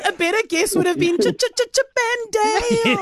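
stuttered Ch-Ch-Ch-Chippendale, laughing. Real, not acted.

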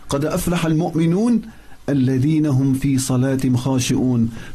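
rapid, flowing recital of the verse; quick Arabic recitation; quick Quran recitation. Acted. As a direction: recite it fast and fluent from memory.

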